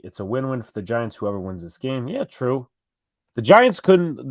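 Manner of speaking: usual speaking voice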